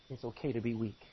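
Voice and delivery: low, soft, soothing tone; hushed pastoral comfort; gentle reassurance. Shown as a demonstration. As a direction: let them off the hook softly. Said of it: "nod your head and say".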